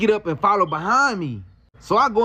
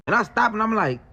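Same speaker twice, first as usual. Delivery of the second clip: usual speaking voice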